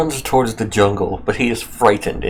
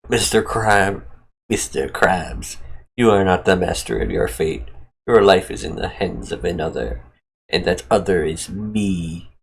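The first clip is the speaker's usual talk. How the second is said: God speaking. Acted. Narrator voices God addressing Mister Krabs, solemn pronouncement. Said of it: "God says".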